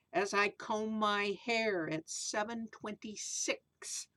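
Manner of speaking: sing-song rhyming read-aloud, slow in places; storybook verse reading; reading to children. A narrator's reading. Reads rhyming picture book aloud.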